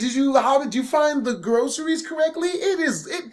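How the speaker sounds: nervous stalling. Retold or imitated. Son trying to stall his mom at the door, nervous stutter. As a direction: stall with stumbling, over-eager questions. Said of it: "probably stuttering as well".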